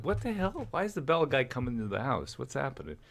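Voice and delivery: a shrill jump of alarm on the first line, then settling back; alarmed wife. Retold or imitated. Wife reacting to the Bell guy arriving, startled. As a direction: imitate the wife's startled what-the-hell. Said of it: "my wife was like".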